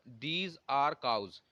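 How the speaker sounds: "These are cows" spelled out word by word; correct example, dictated slowly. Shown as a demonstration. Teacher dictates correct sentence to students, very slow. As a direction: read the right sentence very slowly. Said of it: "इसलिए कोई article नहीं आया".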